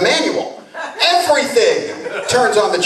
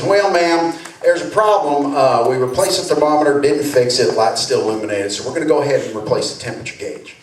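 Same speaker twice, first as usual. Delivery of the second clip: lightly Southern mechanic; a touch of Southern drawl; easy Southern mechanic drawl; 2 semitones lower than usual. Retold or imitated. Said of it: "slipped into a little Southern drawl".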